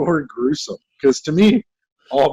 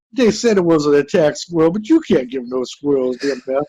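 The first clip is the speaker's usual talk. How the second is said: mock Southern suspect. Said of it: "he was like".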